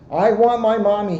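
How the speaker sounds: little monster crying out; crying child. Acted. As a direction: wail for mommy like a lost little monster. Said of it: "he cried".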